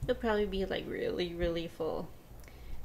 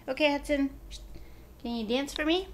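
bright coaxing call to the dog, louder; coaxing pet voice; 3 semitones higher, 3 dB louder than usual. Real, not acted. Owner coaxing her dog Hudson, loud and coaxing. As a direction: coax the dog to dance for a treat.

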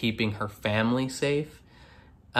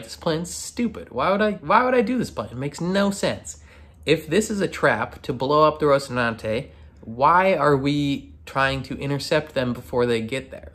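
mock sassy protest, pitched up at first; 3 semitones higher than usual. Drummer objecting to the trap plan, sassy. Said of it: "being sassy".

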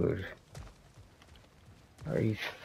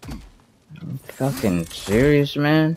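slow and higher, stretching serious in exasperation; drawn-out disbelief; 7 semitones higher, slower than usual. Real, not acted. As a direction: drag the words out, higher and incredulous.

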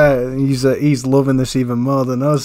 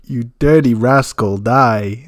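hammed-up villain cry, a bit louder; cartoonish fury; 5 dB louder, slower than usual. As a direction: ham up a cartoon villain's rage. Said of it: "That voiceover".

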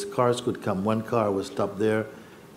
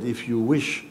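solemn teaching; slower than usual. Retold or imitated. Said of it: "he said".

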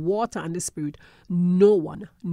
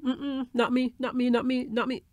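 a hint of a small child's whiny denial, higher; child denying; 5 semitones higher than usual. Preacher voicing a toddler denying mischief, mock whiny. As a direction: play the toddler caught out, shaking head.

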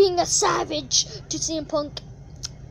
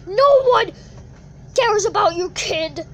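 higher, louder taunt; trash talk shout; 3 semitones higher, 5 dB louder than usual. Pretend. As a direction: sneer it at the kid.

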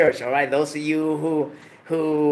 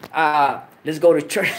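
trying to keep a straight face; 3 dB louder than usual. Shown as a demonstration. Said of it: "I can't even say with a straight face".

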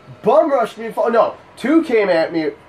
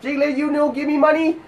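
high child beggar in a put-on Asian accent; high-pitched, caricatured Asian-accented plea; mock Asian accent; 7 semitones higher than usual. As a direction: pester like a small vendor, mock Asian accent. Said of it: "I turned him Asian just now".

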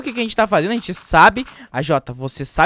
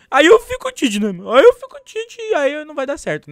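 put-on whiny baby voice; 9 semitones higher, 7 dB louder than usual. Whining about losing the vote.

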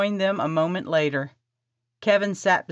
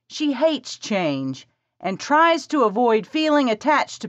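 put-on eager young woman; 6 semitones higher than usual. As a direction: rush the plan, bossy and eager. Presley voiced by narrator.

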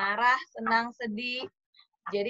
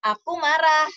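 put-on higher, louder child stating anger; teacher demoing a child saying he's angry; child voicing anger; 4 semitones higher, 8 dB louder, slower than usual. Shown as a demonstration. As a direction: model the words a child should say. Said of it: "bilang misalnya".

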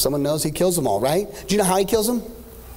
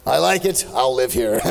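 lightly voiced grand movie hero, slow; a hint of Charlton Heston, slowed and proud; 3 semitones higher, slower than usual. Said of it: "in his Charlton Heston voice".

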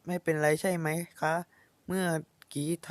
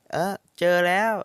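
surprised find; 3 semitones higher, 6 dB louder than usual. Acted. Finding pajamas.

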